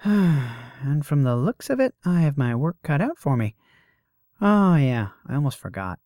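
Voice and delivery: high, loud, breezy woman; brash muse voice. Acted. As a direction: play a cocky young goddess. Voices Calidora in the story.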